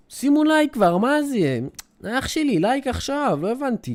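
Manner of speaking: hammed-up push at the chat; mock demanding. Streamer nagging chat for likes, mock demand.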